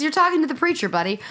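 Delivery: imitating Craig. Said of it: "Craig says".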